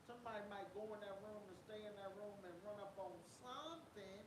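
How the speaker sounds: suspicious, probing questions; conspiracy radio host. Pretend. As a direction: lean in like a conspiracy theorist. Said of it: "in my conspiracy theorist voice".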